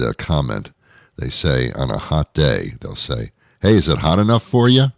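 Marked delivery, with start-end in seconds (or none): 3.6-4.9 mock hearty greeting, higher with a rising question; higher, goofy small-talk voice; stupid small-talker. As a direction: imitate a clueless passer-by making a lame joke. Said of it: "they actually sound and look stupid".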